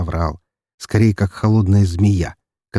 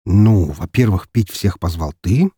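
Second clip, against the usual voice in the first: slow counting; slower than usual. Acted. Counting off points slowly.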